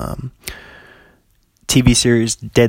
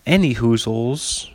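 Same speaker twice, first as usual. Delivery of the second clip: goofy voice; slower than usual. Pretend. Goofy wordplay sign-off.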